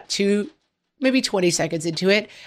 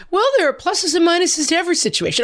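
higher, quicker, relentlessly upbeat; mock cheery; 11 semitones higher, 3 dB louder, faster than usual. Imitating husband's cheery take on lockdown, mock cheery. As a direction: imitate the husband's sunny reasonableness, pitched up. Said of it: "stop being so cheery".

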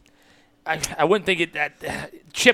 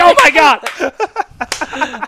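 stunned; 5 dB louder, much slower than usual. Real, not acted. Shock at his own Googling.

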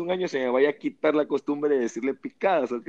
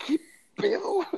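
retold surprise; 4 dB quieter than usual.

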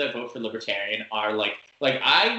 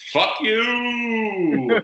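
much higher, loud yell; yelled insult; 13 semitones higher, 6 dB louder than usual. Retold or imitated. Yelling at the Trump-flag guy from the car window.

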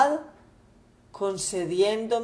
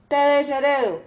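a raised, indignant father's voice, a touch higher; angry father; 5 semitones higher, 4 dB louder, faster than usual. Acted. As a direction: scold the son and forbid his return. Padre furioso repudia al hijo. (padre indignado, voz algo más alta)

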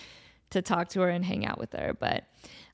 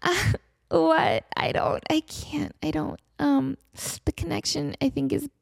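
baffled polite caller; 5 semitones higher, slower than usual. Retold or imitated. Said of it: "And she's like".

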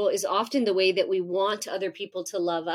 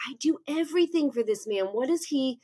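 frustrated inner rant; 3 semitones higher than usual. Retold or imitated. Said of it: "I'm thinking, like".

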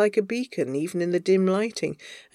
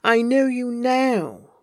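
slow, insistent anger; angry; 3 semitones higher, 3 dB louder, slower than usual. Acted. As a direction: press each word with controlled anger. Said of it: "pale with anger".

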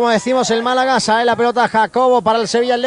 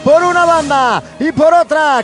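breakneck goal commentary; 4 semitones higher than usual. Real, not acted. Excited goal recap commentary.

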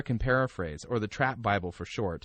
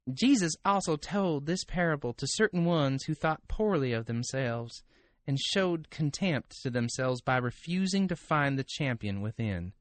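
Texas drawl; 2 semitones higher than usual. Acted. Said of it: "read this in Osteen's kind of Texas drawl".

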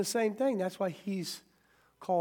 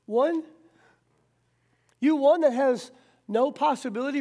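loud, high taunting challenge to the devil; defiant challenge; 4 semitones higher, 3 dB louder than usual. Acted. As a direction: throw it in the enemy's face, fearless. Preacher defies the fallen enemy.

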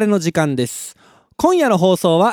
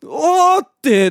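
drawn-out mock groan; 10 semitones higher, 4 dB louder, much slower than usual. Bath too hot to bear.

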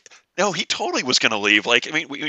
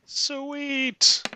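excited; 14 semitones higher than usual. Real, not acted. Happy about potions found.

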